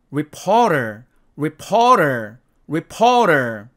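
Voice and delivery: final r with only the tongue tip curled, lips not rounded; teacher, river, after, soccer, reporter, each ending on a curled r; final r sound. Shown as a demonstration. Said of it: "제가 예문 읽어보도록 하겠습니다".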